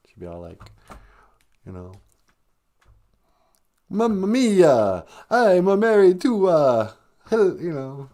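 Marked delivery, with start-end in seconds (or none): 3.9-8.1 slow, high, hammed-up Spanish accent that slips into Italian; fake Spanish accent. Wife pretending she was from Spain, fake Spanish accent. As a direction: do a bad mock-Spanish accent, drawn out and higher. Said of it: "she would speak with a fake Spanish accent".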